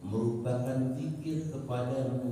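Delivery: mock husband's prayer. Preacher mimics husband praying about nagging wife, sing-song. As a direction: pray like a long-suffering husband. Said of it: "punya istri kok bawel".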